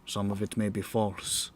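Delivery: slow storyteller's bard opening; grand rhythmic bard. Acted. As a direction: intone it like an old bard. Bard begins the tale.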